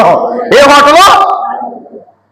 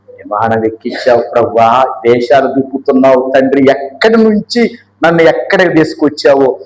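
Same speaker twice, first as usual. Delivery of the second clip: tearful prayer; 5 semitones lower than usual. Retold or imitated. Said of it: "విమానం ఎక్కిన తర్వాత ఏడ్చాడంట". (కన్నీటితో ప్రభువుకు మెల్లని ప్రార్థన)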